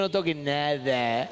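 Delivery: slow, low, drawn-out warning; father warning kids not to touch cars; stern warning to kids. Retold or imitated. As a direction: hold the kids back firmly. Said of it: "agarrándolo a los dos míos".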